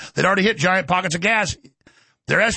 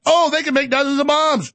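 higher, put-on wide-eyed discovery; mock amazement; 6 semitones higher than usual. Reacting to the Easter bunny's news, mock amazed. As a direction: play the gullible listener, pitched up. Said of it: "And I went".

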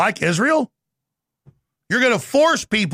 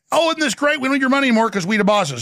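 mock diplomatic; 5 semitones higher, faster than usual. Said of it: "announcing in a very diplomatic way".

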